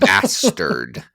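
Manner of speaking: low, deliberate swear close to the mic; mock-gritty low cussing; carefully articulated swear. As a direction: enunciate it low and solemn into the mic. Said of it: "close to the mic so you can articulate it".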